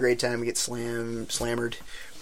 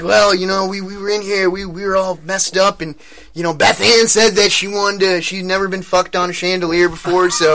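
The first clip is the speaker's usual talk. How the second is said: higher-pitched imitation of a Southern guy; Southern accent; 5 semitones higher, 3 dB louder than usual. Chuck explaining to Rich what happened, imitated Southern accent. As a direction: explain yourself sheepishly in a put-on Southern accent. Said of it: "He's a Southern guy".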